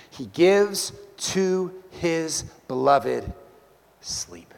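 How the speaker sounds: slow, then whisper the last word; slow reading fading to whisper. Shown as a demonstration. Preacher reading Solomon's promise, slow and fading. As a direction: let the word sleep fall to a whisper. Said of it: "reading the verse, dropping to whisper".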